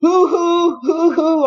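high, drawn-out owl hoots; owl hooting. Retold or imitated. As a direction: imitate an owl hooting as it flies off. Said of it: "he still was".

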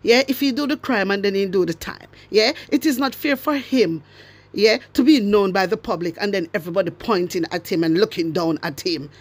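lightly mimicked minister, standard English; a hint of Delroy Chuck's proper speech; quoting Delroy Chuck. Vlogger quoting Delroy Chuck mocking his words, light standard English voice. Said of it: "Delroy Chuck say".

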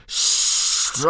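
long, drawn-out yell; screamed. A narrator's reading. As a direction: halt a brawl with one huge stretched yell. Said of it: "screamed Gobber the Belch".

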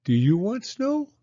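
put-on high, eager child's voice; little girl Penny. Penny asking Mama about snow, high childlike voice. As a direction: ask like an impatient little girl. Penny asks her doll Rose.

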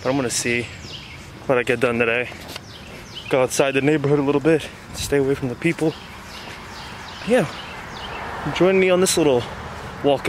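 muffled mouth covered by cloth; talking outdoors while walking masked; speaking through a face mask. Real, not acted. Seen 1: Black cloth mask covers mouth and nose throughout; references unmasked.

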